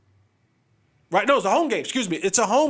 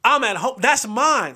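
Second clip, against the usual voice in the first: voicing Giannis, loud and possessive; indignant Giannis; 3 semitones higher, 4 dB louder, slower than usual. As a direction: refuse him like a star who owns the building. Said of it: "But Giannis is like".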